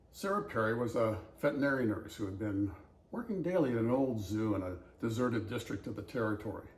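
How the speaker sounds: reads a set passage aloud in a story voice; story reading. Acted. Reading the dialect passage aloud, story-reading voice. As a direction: read it out like a story for listeners.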